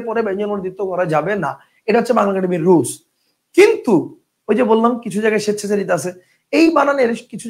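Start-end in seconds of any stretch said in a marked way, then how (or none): 3.6-3.9 "কিন্তু" punched out high and loud; emphatic turn. Real, not acted. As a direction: hit "কিন্তু" hard to flag an exception. Teacher flags an exception to rule. ("কিন্তু" চড়া গলায় জোর দিয়ে বলা)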